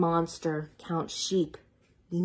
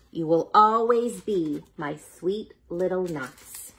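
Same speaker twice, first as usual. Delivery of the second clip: tender mama. Acted. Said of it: "So Big Mama Nut said".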